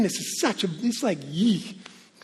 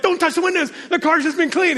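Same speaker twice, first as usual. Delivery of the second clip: fussy car-proud dad; 6 semitones higher, 3 dB louder than usual. Retold or imitated. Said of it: "I'm like".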